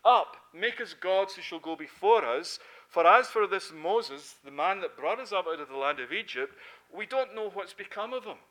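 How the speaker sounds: loud, insistent demand from the mob; demanding crowd. Retold or imitated. People demanding gods from Aaron, loud and insistent. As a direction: push it like an impatient crowd.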